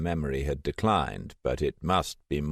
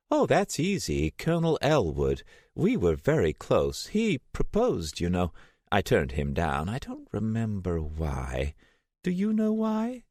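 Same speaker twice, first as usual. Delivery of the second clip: put-on high, wavering voice of a confused elderly woman; a frail old lady, lost and vague; old Selena on the phone to Steiner, confused and frail; 6 semitones higher than usual. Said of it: "old Selena rambles, confused".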